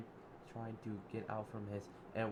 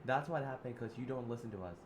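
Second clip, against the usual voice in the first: mocking laugh; 2 semitones higher than usual. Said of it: "Zip Oliver laughed".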